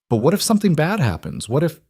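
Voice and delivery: put-on high frightened child voice; worried little girl pleading; scared child. A narrator's reading. Scared child after nightmare.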